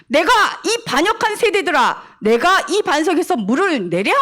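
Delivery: a touch of anger, scolding the rebels; lightly voiced exasperated rebuke; mild angry Moses. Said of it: "이러면서 화를 냈어요". (살짝 화난 모세의 꾸짖음)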